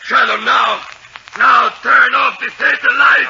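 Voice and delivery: slow, high desperate yell; frantic shout. Acted. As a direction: scream the order in panic. Villain demands light off.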